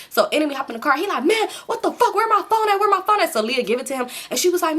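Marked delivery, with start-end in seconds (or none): 1.2-3.3 angry demand. Retold or imitated. Enemy angry in the car.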